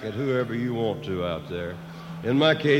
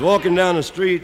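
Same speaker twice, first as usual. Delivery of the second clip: said again louder for the heckler; repeating it louder with a laugh; 4 semitones higher, 4 dB louder than usual. Real, not acted. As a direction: raise your voice so the back row hears. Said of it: "Excuse me, I couldn't hear you".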